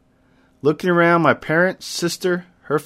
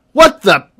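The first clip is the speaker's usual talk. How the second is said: surprised; 5 semitones higher, 11 dB louder than usual. Acted. Sudden upset in the game.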